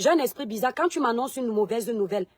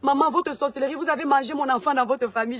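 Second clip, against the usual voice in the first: reproche à sa mère; 2 semitones higher than usual. Retold or imitated. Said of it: "Je commence à parler comme ça".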